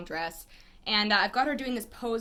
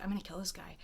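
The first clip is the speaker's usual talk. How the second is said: hushed, softer retold threat; imitated whisper; 3 semitones lower, 10 dB quieter than usual. Model confiding in the photographer, imitated whisper. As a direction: say it under your breath as the model. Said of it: "then she whispers".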